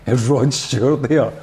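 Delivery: can barely get the wind-up out for laughing; laughing while quoting. Retold or imitated. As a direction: quote broken up by laughter. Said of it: "he's like".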